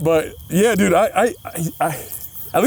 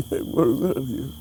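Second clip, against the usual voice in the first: whispered echo; 6 dB quieter, much slower than usual. Retold or imitated. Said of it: "echo of friend's line".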